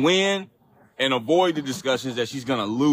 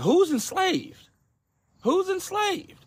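who's enslaved, voice leaping high in disbelief; incredulous; much slower than usual. Real, not acted. Mocking the quote with a sky-high incredulous who's enslaved. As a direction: pitch jumping way up, disbelieving.

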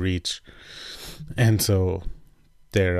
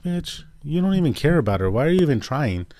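high, scornful telling-off; scornful outburst, higher; indignant retort; 8 semitones higher, 5 dB louder than usual. Retold or imitated. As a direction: snap at her in disbelief. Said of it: "that's legitimately what I felt like".

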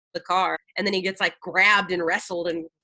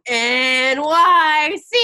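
loud, slow, drawn-out belting; gung ho; 8 semitones higher, 8 dB louder, much slower than usual. Retold or imitated. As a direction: belt it out overzealously. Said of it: "all you would hear is me going".

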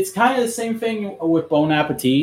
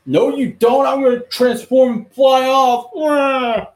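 higher, slow and grand; mock heroic defiance; 11 semitones higher, 4 dB louder, slower than usual. Build defying the Prime Minister, mock heroic defiance. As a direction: ham up the hero's exit line. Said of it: "hero's defiant comeback".

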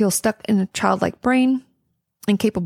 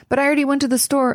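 frustrated parent; 7 semitones higher, faster than usual. Retold or imitated. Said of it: "They're like".

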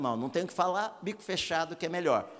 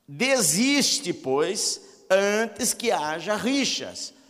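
higher, slow, emphatic verse; scripture reading; 4 semitones higher, much slower than usual. Acted. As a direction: press the warning home slowly. Reads scripture aloud. (leitura enfática do versículo)

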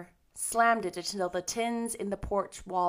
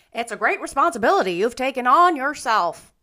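louder, higher gloomy warning; 4 semitones higher, 10 dB louder than usual. A narrator's reading. Rachel warns Marilla about the responsibility, gloomy. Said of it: "said the lady gloomily".

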